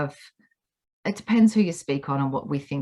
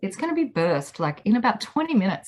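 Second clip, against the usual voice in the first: mock pitying sweetheart; 4 semitones higher than usual. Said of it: "And I was like".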